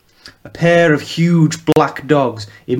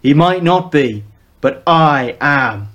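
louder, slow last words, lightly voiced older man; a hint of a gruff father; 3 semitones higher, 4 dB louder, slower than usual. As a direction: assert authority from the shadows. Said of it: "added gravel and bass".

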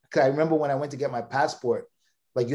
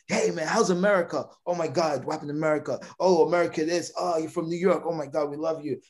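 put-on gushing friendly kids; 4 semitones higher, faster than usual. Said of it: "They're like".

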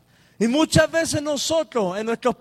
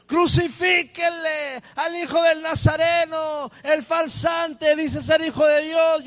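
higher, shouted jeer; mocking crowd voice; 6 semitones higher than usual. Preacher voicing the crowd against the Nazarene, higher jeering shout. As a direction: sneer it like a hostile mob. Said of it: "resonaba una voz más fuerte".

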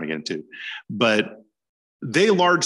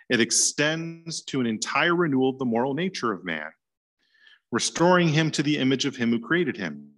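reading a quote aloud; 5 semitones higher than usual. Retold or imitated. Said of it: "He says".

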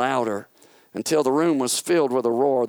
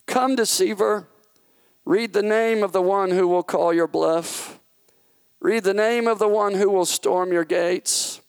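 raised, commanding king's voice; commanding God; 9 semitones higher, 4 dB louder than usual. Acted. God commanding Satan to read the name, raised and firm. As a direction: order the deceiver to read, rising and firm.

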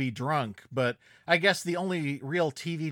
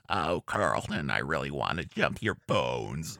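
talking while inhaling; 13 semitones lower than usual. Shown as a demonstration. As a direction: speak while breathing in. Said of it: "Just speak while inhaling".

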